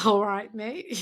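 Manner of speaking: "All right, mate" with an Australian lilt; a light Aussie "mate". Shown as a demonstration. Copying a friend's Australian greeting, light Aussie accent. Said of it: "Very good. Well done".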